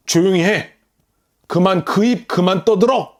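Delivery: a hint of a stern commanding voice; stern, authoritative rebuke. Preacher voicing Jesus silencing the demon, mildly stern. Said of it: "엄한 목소리로 그 권위를 가지고".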